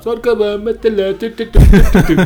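put-on high, mangled kid's recitation, laughing; mock child stumbling through the Sorcova verse; child's garbled carol. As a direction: mumble the carol like a little kid. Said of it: "Cum ziceai tu acolo".

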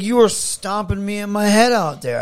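loud, high-pitched protest; retold indignant accusation. Wrestler accusing opponent backstage, indignant. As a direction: throw the accusation at him.

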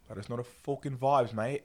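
jokey fake British accent, lightly done; mock British accent. Podcast sign-off to listeners in a half-hearted British accent. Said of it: "I don't even know what accent this is".

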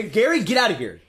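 bad impression, called out loudly; Gary. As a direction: bark it out as a hammed-up impression. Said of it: "It's such a bad Gary".

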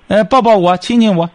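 模仿女人向老公撒娇，音调抬高、音量加大; 假装娇声求抱抱、求亲亲; 撒娇示范. Shown as a demonstration. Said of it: "你不撒娇". (学着女人撒娇的口吻)

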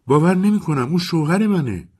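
the repeat breaks into panic; rising panic. A narrator's reading. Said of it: "انگشتانش را توی هم کرد".

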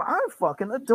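put-on cooing baby talk, rising at the end; I'm fucking adorable in baby talk. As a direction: gush it like talking to a baby. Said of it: "What's with the fucking baby talk".

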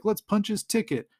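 high mock battle cries, one after another; playful rallying list, stretching some phrases; retold yelling. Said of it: "they're all yelling".

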